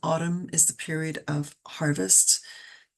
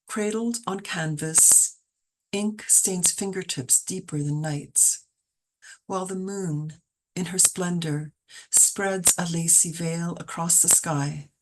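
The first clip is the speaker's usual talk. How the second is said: slow, measured recital of a poem; poem reading; slower than usual. Acted. Poet reading her moon poem to the group, slow recital. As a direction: lay each image down slowly.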